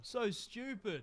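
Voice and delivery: slow, high, drawn-out disdain; exasperated. Real, not acted. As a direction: drag out the words in disbelief. Exasperated about the film's villain.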